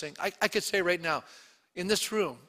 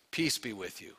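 ordinary greeting; 7 semitones lower, 7 dB quieter than usual. Retold or imitated. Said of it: "is really the ordinary greeting".

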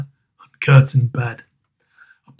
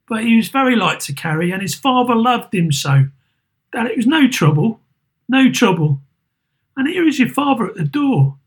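higher, tired voice of a grieving mother; weary mother; 8 semitones higher than usual. Acted. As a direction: hide the tears behind small talk. Mother speaks of Tiny Tim.

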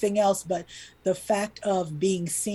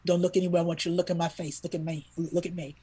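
tender plea; 3 dB quieter, faster than usual. Retold or imitated. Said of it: "I said".

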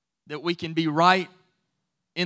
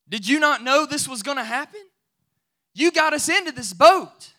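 panicked disciples; 7 semitones higher, 6 dB louder than usual. Retold or imitated. Frightened disciples wake Jesus in storm.

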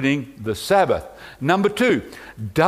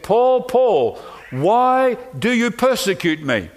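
raised, ringing call of Paul's name; crying out; 6 semitones higher, slower than usual. Retold or imitated. Jesus calling to Paul on the Damascus road, raised cry. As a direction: call out across the road, pleading. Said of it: "Jesus cried out to Paul".

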